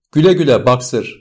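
shouted farewell. A narrator's reading. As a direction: call goodbye as a crowd would. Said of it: "diye bağırıyorlardı".

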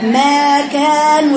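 ما كان stretched very slowly, the م fully voiced without breath; voiced mim demo. Shown as a demonstration. Teacher showing how to say mim voiced, very slowly. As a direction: hold the م of ما kan long and buzzing. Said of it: "أحط إيدي كده وأنا بقرأ ما".

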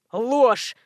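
an outraged boss yelling Ложь, Ложь; shouting. A narrator's reading. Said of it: "закричал Иван Никифорович".

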